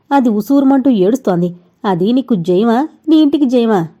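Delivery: an agitated mother raising her voice; heated outburst. Acted. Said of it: "అంది ఆవిడ ఆవేశంగా". (ఆవేశంగా గట్టిగా)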